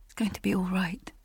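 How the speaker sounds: soft reassuring whisper; calm her in a hush; soothing whisper. Acted. Comforting her on the bed.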